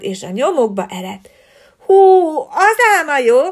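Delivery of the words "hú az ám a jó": high, loud delighted cry; excited girls. Acted. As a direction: squeal it with glee. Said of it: "nevettek a lányok".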